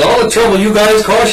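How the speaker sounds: high-pitched imitated Georgia girl; Georgia accent. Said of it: "a Georgia accent".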